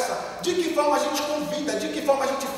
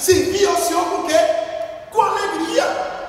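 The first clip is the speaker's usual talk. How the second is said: preaching shout; 5 semitones higher, 4 dB louder than usual. Real, not acted. Preacher exclaims scripture.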